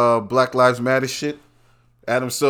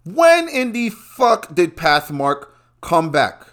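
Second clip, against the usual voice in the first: disbelief; 5 semitones higher, slower than usual. Real, not acted. Repeats more emphatically.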